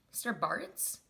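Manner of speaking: hesitant, questioning name with rising end; disbelieving recognition. Retold or imitated. Recognizing a teacher in the wreckage, tentative disbelief. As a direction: ask the name as if unsure it's really them.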